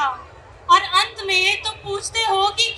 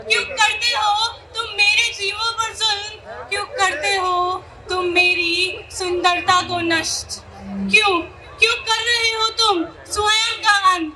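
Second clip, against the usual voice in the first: acted tearful appeal, pitched up in places; anguished pleading; 3 semitones higher than usual. Mother Earth asks humans why they harm her creatures, anguished pleading.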